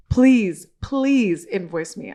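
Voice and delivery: imitating her begging to pay; pleading. The host begging to be invoiced, mock pleading. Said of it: "And she goes".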